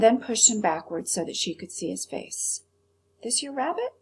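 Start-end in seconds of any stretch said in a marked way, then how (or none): 3.2-3.9 waitress. Acted. Waitress asks about rabbit.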